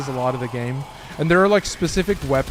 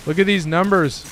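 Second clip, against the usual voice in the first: voice cracking; 4 semitones higher than usual. Real, not acted. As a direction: voice cracks on the excited repeat. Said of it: "My fucking voice is cracking".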